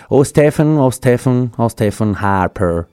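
lent, déclamé en rêverie; réciter comme un poème lyrique sur musique; poème improvisé. Pretend. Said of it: "je fais un petit poème improvisé". (poème déclamé lentement)

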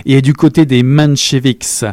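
a lightly voiced angry accuser; indignant rant. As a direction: rail against him, worked up. Character ranting against Trotsky.

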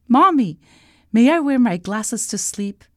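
put-on high child calling Mommy; high-pitched little girl's request; pleading little princess. A narrator's reading. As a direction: ask Mom hopefully at bedtime. Princess asks mother at bedtime.

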